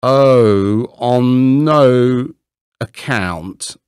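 loud, eager protest; anxious cry. A narrator's reading. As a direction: cry out to stop him. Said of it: "cried Hans".

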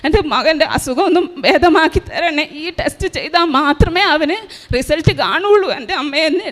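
retold prayer with a touch of tears; a hint of crying in a retold plea; tearful prayer. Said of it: "കരഞ്ഞ് ഞാൻ പ്രാർത്ഥിച്ചു".

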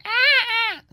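mock bird squawk. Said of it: "y dice".

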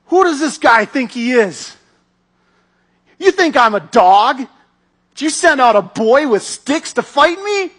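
scornful giant shout. Retold or imitated. Goliath shouting at the boy David, scornful and loud. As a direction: sneer it out loud at a mere boy. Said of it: "and he goes".

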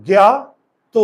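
জ্ঞাত as গ্যাত, jaw staying closed; pronounced gyat. Shown as a demonstration. Teacher demonstrating জ্ঞাত as গ্যাত to students. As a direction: show জ্ঞাত as গ্যাত, jaw not opening. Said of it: "দেখো".

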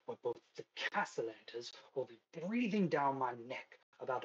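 lightly voiced posh villainess under pressure; measured, exasperated high-class scolding. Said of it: "high-class, uh, voice".

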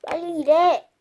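loud boss barking at workers; bossy order. Pretend.

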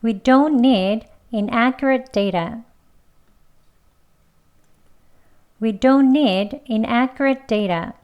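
very slow, stress on don't; slowly. Shown as a demonstration. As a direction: drag it out word by word, hitting don't. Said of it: "천천히 두 번".

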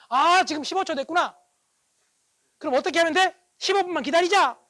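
loud, high-pitched thinking aloud; acted realization. Husband reminding himself to wait out wife's anger, loud realization. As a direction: announce the realization to yourself with big emphasis. Husband's self-talk while wife rages.

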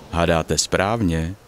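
plain reading voice

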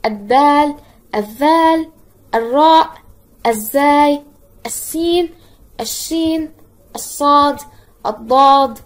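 teacher's emphatic roll call, التاء said as "at-taa"; sun letters recited. Shown as a demonstration. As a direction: punch out each name from التاء to النون separately, no l after the a. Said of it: "نتذكر أحرف اللام الشمسية".

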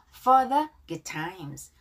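"for the good times" slowly, with a clear F on "for"; "for" begun with a careful English F sound; F pronunciation. Shown as a demonstration. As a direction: model the F at the start of "for". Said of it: "F 발음".

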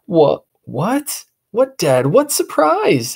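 put-on high, alarmed boy voice; rising panic, young boy; boy thinking in alarm; panicked boy.

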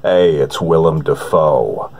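grave, humorless and deliberate; Willem Dafoe impression. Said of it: "A newer one that I've been working on is Willem Dafoe".

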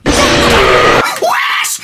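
loud low yelp of fright; startled shout. Real, not acted. Gamer jumps at a scare, startled shout. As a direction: jolt and shout it out. Jump scare in horror game.

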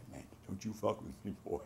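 mock a tyrant sergeant, without raising your voice; drill sergeant. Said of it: "imitate one of our drill sergeants".

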